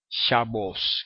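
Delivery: Shabbos, very slow, its o held long; drawn-out o. Shown as a demonstration. Teacher slowly stressing the o vowel for students. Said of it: "con O".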